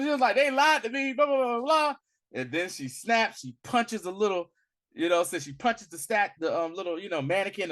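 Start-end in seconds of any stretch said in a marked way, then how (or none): 0.4-1.9 mock sulky protest. Shuri's refusal retold again.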